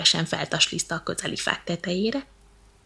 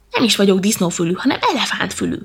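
indignant; 5 dB louder than usual. Acted. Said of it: "méltatlankodik".

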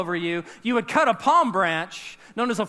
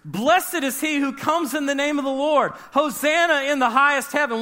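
higher, raised voice of a cheering crowd; crowd shouting praise; 5 semitones higher than usual. Retold or imitated. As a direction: call it out like a hopeful crowd. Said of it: "those that followed shouted".

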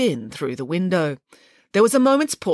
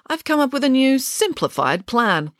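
proud; 9 semitones higher than usual. Acted. Nanny announcing plan.

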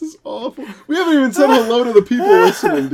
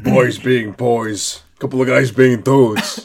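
deep mock voice; 8 semitones lower than usual. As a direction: drone it like a parody announcer.

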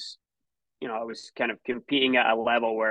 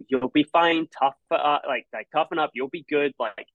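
brave reassuring mom; 3 semitones higher than usual. Retold or imitated. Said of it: "to put on a face and be like".

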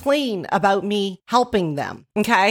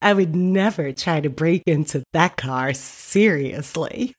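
younger sister, lower and deadpan, slowing on the last word; younger sister's voice; 5 semitones lower than usual. Retold or imitated. Reading the younger sister's text in her voice, lower and deadpan. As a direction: say it deadpan like a sarcastic kid sister. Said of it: "I'm gonna do it in their voice".

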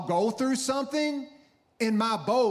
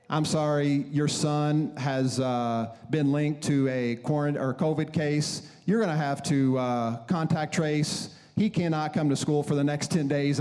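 slow, hesitant official on the phone; lower, measured bad-news call, lightly imitated; school official; 3 semitones lower than usual.

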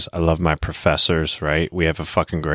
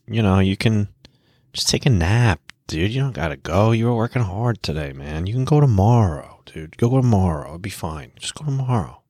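whiny little tempter voice, pitched up; inner bitch voice; 2 semitones higher than usual. Retold or imitated. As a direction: talk yourself out of training, sweet-talking. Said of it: "the little bitch voice is like".

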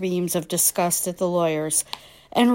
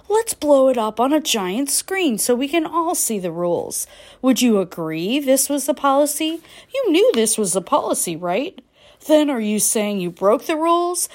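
pushy cross-examining lawyer, a little higher; grilling attorney; 3 semitones higher than usual. Retold or imitated. Attorney grilling the mother on the stand, pushy and pointed. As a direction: press the witness hard like a lawyer.

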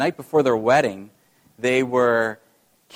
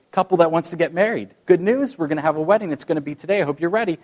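upbeat, higher, louder Peter; jolly Saint Peter with good news; cheery announcement; 4 semitones higher, 5 dB louder, faster than usual. Retold or imitated.

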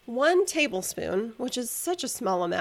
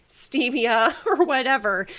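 laughing dismissively; 2 semitones higher, 5 dB louder than usual. Real, not acted. Scoffing at natural sugar substitutes.

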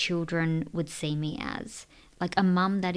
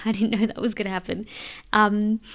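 quick, laughing, a little louder; laughing through tears; 3 semitones higher, 5 dB louder, faster than usual. Real, not acted. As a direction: laugh it off, surprised at herself. Laughing at her own sudden tears.

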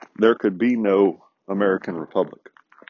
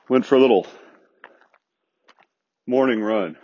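winded, out of breath from a run. Real, not acted. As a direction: talk while out of breath from running. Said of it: "if I sound out of breath, I am".

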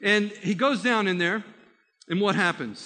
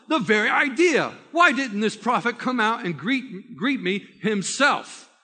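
indignant thought; 4 semitones higher, 4 dB louder than usual. Retold or imitated. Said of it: "he's thinking to himself".

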